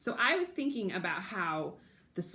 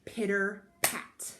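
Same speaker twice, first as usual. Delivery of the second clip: pitter pat rain sound; slower than usual. Shown as a demonstration. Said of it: "the rain is going to go".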